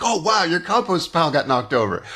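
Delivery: mock-impressed, lightly sarcastic; imitating a sarcastic reply. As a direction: feign amazement to belittle him. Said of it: "which sounds sarcastic".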